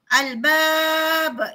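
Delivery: "albab" ending on a strong bounced b; qalqalah kubra demo. Shown as a demonstration. Teacher showing the students the big qalqalah bounce in "albab". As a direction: let the final b of "albab" bounce out. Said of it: "berada di hujung kalimah".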